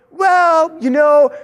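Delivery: high, loud hesitant start; sheepish customer. Retold or imitated. Prospect caught stalling, sheepish. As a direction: stall with an excuse. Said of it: "the guy goes".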